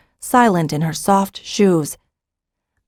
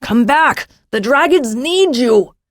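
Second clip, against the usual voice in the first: higher-pitched cry of frustration; frustrated cry; 6 semitones higher than usual. A narrator's reading. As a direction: call them back, exasperated and urgent. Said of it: "Jakaran cried in frustration".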